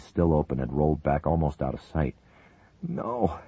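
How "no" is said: cried. Acted. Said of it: "Dmitri cried, totally devastated".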